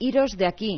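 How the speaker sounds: ordinary talk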